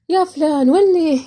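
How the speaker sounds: ولي said sharply to send someone off; dismissive go away. Shown as a demonstration. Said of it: "يعني روح".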